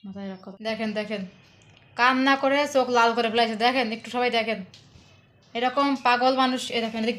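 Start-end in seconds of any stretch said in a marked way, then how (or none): 1.9-7.2 calling out. Real, not acted. Shows crying one to viewers.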